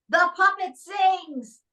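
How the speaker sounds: high, drawn-out mock yell; retold scream. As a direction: imitate a drunk heckler's amazed scream, not too loud. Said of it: "he stands up and screams".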